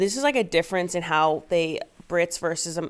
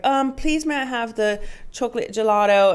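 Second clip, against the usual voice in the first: put-on childish British ex; 3 semitones higher than usual. Ex-boyfriend ordering gelato, in a mock childish British voice. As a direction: sound like a polite little kid. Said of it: "sound so childish to me".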